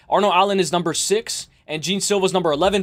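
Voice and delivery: ordinary talk, nothing marked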